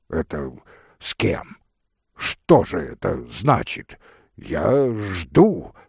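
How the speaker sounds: lightly hoarse, impatient man; hoarse male voice. Acted. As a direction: demand an answer, a touch husky. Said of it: "раздался сиплый голос". (сипловатый мужской голос, с нетерпением)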